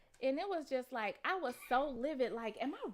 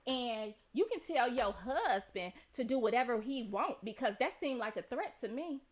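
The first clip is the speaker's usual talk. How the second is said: defensive retort; 5 dB louder than usual. Retold or imitated. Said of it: "She was like".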